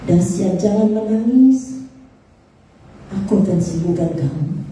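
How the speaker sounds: slow, drawn-out consoling words from God. Retold or imitated. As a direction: slowly imitate God comforting his child. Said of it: "dia dengar suara bilang begini".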